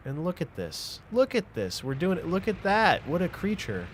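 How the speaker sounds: loud, high, thrilled exclaiming; loud excitement. Real, not acted. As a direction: cheer loudly at the screen. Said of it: "Sorry I'm being loud".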